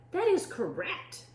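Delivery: high, proper little voice; prim rascal. A narrator's reading. Rascal answering the pirate captain, high prim voice.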